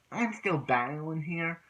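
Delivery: high, slow mock protest; retold protest. Player holding off an eager friend mid-battle, protesting. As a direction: stretch it out as an imitated objection.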